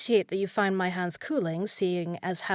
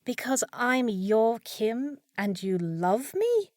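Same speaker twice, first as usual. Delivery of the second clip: bemused echo; 3 semitones higher, much slower than usual. Acted. Maid echoes wizard's delirious claim.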